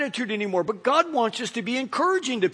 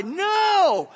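sudden, much higher, louder shout; preacher shouting the claim down; emphatic no; 11 semitones higher, 4 dB louder than usual. Real, not acted. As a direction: cut the idea down hard. Preacher rejecting the false claim.

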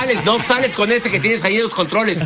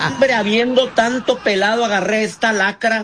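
laughing lament; 5 semitones higher than usual. Acted. Joking lament, laugh heard.

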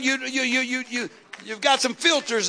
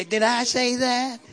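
slow, nasal-free but put-on sitcom nerd voice, laughing; Urkel catchphrase; slower than usual. Preacher recalling a childhood TV character, playful imitation. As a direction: mimic the TV nerd's catchphrase with a laugh. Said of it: "And he would say".

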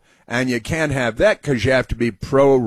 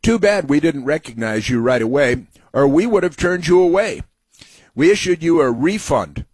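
mocking read; 4 semitones higher than usual.

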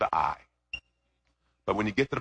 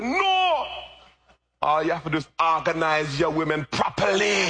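put-on Jamaican accent. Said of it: "you know, Jamaican accent".

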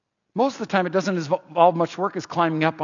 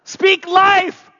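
louder call-out; 12 semitones higher, 6 dB louder than usual. Shown as a demonstration. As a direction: shout it again, higher. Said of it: "You're really not catching on".

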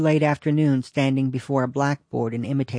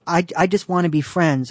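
nervous stammer on the first word; 4 semitones higher, 3 dB louder than usual. Retold or imitated. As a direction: stumble over the start, nervously. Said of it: "I stammered".

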